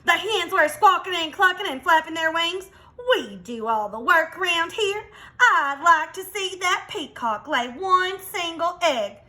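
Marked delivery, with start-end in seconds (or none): 3.2-9.2 higher, indignant hen voice; complaining hen. Acted. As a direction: grumble like a put-upon hen. Hens complain about peacock.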